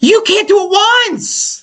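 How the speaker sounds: high-pitched slow indignant cry; exasperated outburst. Real, not acted. To friend who doubts the push-ups, a high slow indignant protest.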